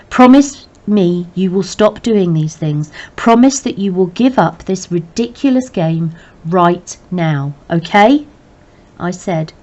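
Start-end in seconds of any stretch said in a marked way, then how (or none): 0.1-8.3 slow, loud, insistent order; father forcing his son to promise, slow and loud; stern demand. Acted. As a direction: hammer each word home slowly.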